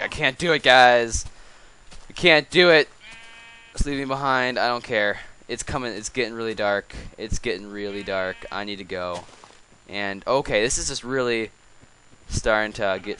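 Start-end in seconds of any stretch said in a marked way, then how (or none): 0.0-9.2 whiny cow voice. Retold or imitated. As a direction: ham up a panicking cow begging to be left behind. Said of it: "This cow is like".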